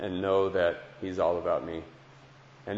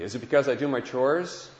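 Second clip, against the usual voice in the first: put-on quick child's question; 4 semitones higher than usual. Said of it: "he goes quickly".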